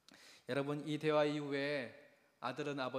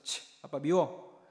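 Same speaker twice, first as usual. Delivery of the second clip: 느리게 끌며 삐친 아이 투정; 서운해서 토라진 아이처럼; 실망한 투정; 7 dB louder, much slower than usual. Retold or imitated. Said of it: "이 아이가 실망하면서". (실망한 아들이 아빠에게 삐쳐서 하는 투정)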